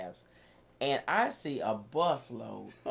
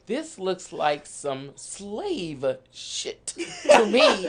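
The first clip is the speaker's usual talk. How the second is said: slow laughing quote; 3 semitones higher, 3 dB louder, much slower than usual. Retold or imitated. Quoting the young coworker.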